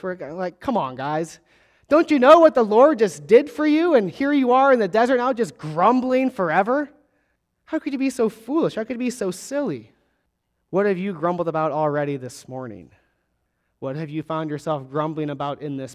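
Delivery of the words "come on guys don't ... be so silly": mock disbelief, pushing higher on the questions; incredulous scolding. Reader to the grumbling Israelites, incredulous scolding. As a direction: chide them as if baffled by their foolishness. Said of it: "we wonder how they could be so silly and foolish".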